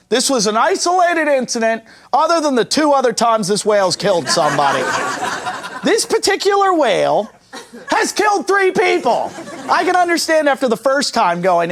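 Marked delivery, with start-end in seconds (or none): 0.1-9.3 CEO statement. Retold or imitated.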